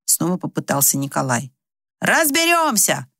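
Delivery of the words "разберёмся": high, drawn-out call; shouted from the door. Acted. The boys call from the doorway, high and slow. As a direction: call it back as you leave. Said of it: "крикнули уже с порога".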